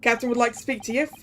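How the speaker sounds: lightly voiced Russian sailor, quickly; hint of a Russian accent; attempted Russian accent. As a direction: try a Russian sailor, not quite landing it. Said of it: "Russian accent".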